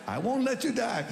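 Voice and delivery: high, loud retold shout of the promise. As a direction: shout it out like the doctor did.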